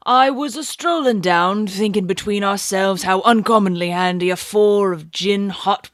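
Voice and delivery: a lightly voiced London bobby, recounting; Cockney constable. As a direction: tell it like a plain-spoken old policeman. Constable Rance's dialect narration.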